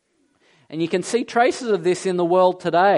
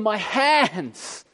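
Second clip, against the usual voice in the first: mock scream of pain; 3 semitones higher, much slower than usual. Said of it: "He doesn't scream".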